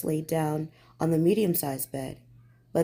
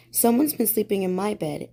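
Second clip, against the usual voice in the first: cried; 3 semitones higher than usual. Acted. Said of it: "he cried".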